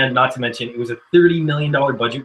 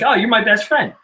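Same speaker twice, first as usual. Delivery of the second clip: high-pitched imitation of Casey Affleck's line; Affleck impression; 9 semitones higher than usual. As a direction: mimic Affleck with a lifted pitch. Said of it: "that's the way Affleck says that".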